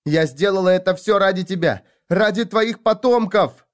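high, loud plea; anguished cry, slowing at the end; desperate shouting. Acted. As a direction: hurl it after him. Pleading shout after leaving father.

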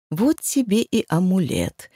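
plain reading voice

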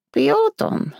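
put-on mildly sorrowful old crone; sighing old woman. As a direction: admit it with a weary sigh. Old woman sighs sadly.

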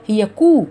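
كو with lips fully rounded. Shown as a demonstration. Teacher showing the rounded u of كتب. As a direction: say كو with a full round u. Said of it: "ضم إلا لضم الشفتين".

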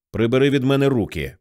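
plain reading voice

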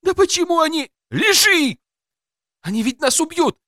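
high terrified woman's cry; panicked woman. A narrator's reading. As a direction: scream it in terror. Wife panics under gunfire.

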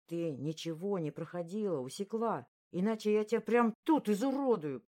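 rising to a loud snarl at the end; growled threat. Acted. Bully growling threats into her ear, building loud. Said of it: "прорычали мне в ухо".

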